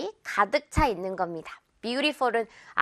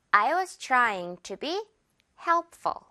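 very slow model sentence, light FUL; slow demo; much slower than usual. Shown as a demonstration. Teacher modeling slowly for students, light ful. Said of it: "help 하고 가벼운 깃털 넣".

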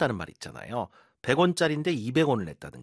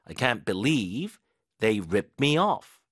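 very slow, split in two, "off" stressed; slow model sentence; 2 semitones lower, much slower than usual. Shown as a demonstration. Teacher repeating the sentence slowly for learners. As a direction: drag it out word by word. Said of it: "믿을 수가 없다".

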